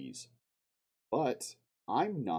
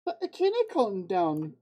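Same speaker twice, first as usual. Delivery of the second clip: put-on slow, higher, louder jokey mixed accent, sliding Scottish into Jamaican; mock Scottish-Jamaican accent; 9 semitones higher, 7 dB louder than usual. Streamer teasing himself about calming down, in a muddled mock Scottish-Jamaican accent. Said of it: "What the hell was that accent?".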